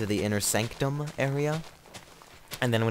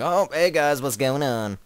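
cheerful spider; 6 semitones higher, 8 dB louder, slower than usual. Retold or imitated. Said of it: "He was like".

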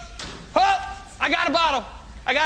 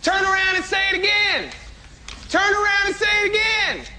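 taunting shout; 3 semitones higher than usual. Real, not acted. The speaker taunting a heckler.

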